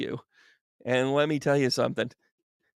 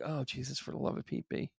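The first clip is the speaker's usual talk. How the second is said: much softer, half-whispered exasperation; exasperated groan; 9 dB quieter than usual. Retold or imitated. Voicing Tracy's weary reaction, soft exasperated mutter. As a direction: sigh it out like you're fed up. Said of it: "you're just like".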